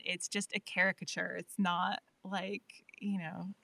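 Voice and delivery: broad, Hollywood-style New York accent; caricature New York accent. Shown as a demonstration. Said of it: "when they do the New York accent".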